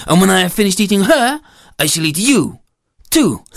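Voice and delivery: boastful goat with stretched, swooping vowels; menacing storybook goat. Acted. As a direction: draw out the grand threat as a goat.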